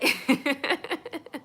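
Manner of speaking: loud high burst of laughter. Real, not acted. After her refusal story, a loud real laugh.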